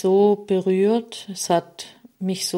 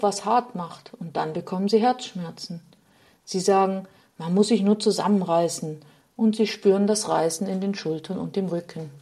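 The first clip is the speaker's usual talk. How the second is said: a hint of a sorrowful figure complaining, slightly raised; a touch of weary grief in a storyteller's voice; lightly voiced Sadness; 2 semitones higher, faster than usual. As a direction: Sadness lamenting her fate, gently voiced. Sadness pours out her lament.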